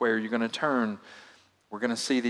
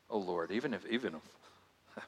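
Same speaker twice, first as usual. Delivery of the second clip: mock Peter; 3 semitones lower, 10 dB quieter than usual. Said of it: "Peter, who was so emphatic".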